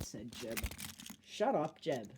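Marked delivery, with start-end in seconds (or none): 1.2-2.1 annoyed. Acted. Thomas telling Jeb to shut up, annoyed. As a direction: brush him off, irritated. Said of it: "said Thomas in an annoyed voice".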